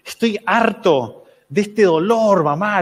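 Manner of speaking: queja lenta y más aguda; queja imitada. Retold or imitated. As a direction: imita a un papá harto de su dolor. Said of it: "se empieza a quejar". (lamento exagerado)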